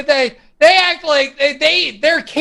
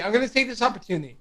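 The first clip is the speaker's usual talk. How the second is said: fast, laughing through words; 7 dB quieter, much faster than usual. Real, not acted. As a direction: giggle as you speak. Laughing while starting to speak.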